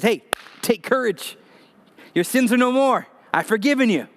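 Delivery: warm reassurance. Retold or imitated. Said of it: "He says".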